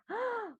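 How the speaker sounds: high delighted gasp; a happy gasp to open the praise; mock gasp. Shown as a demonstration. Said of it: "Mas vamos validar?". (suspiro alegre encenado)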